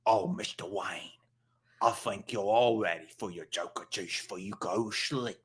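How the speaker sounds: softly coaxing servant; mock butler voice. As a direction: gently nudge your master toward bedtime. Servant coaxes Batman in skit.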